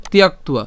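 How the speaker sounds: "তিয়াক্তুয়া" with y and w glides sounded; careful pronunciation. Shown as a demonstration. Teacher models the Sanskrit clusters, careful "তিয়াক্তুয়া". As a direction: say "তিয়াক্তুয়া" as tyak-tua, distinctly. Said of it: "এখানে আমরা যেটা উচ্চারণ করছি".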